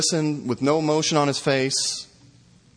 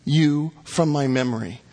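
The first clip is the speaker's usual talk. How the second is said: retold angry outburst; 4 semitones higher than usual. Preacher voicing victims' families cursing the killer, angrily. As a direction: read the families' curses with heat. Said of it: "Some shouted at Gary Ridgway".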